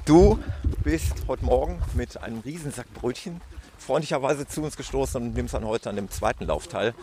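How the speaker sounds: talking while jogging; while running. Real, not acted. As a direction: speak mid-run. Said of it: "Wir laufen gerade los".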